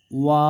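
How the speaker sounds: ওয়া held long and steady; drawn-out vowel. Shown as a demonstration. Quran teacher showing one-alif length, ওয়া drawn out. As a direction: stretch ওয়া out evenly. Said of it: "একালিফ পরিমাণ টেনে পড়তে হয়".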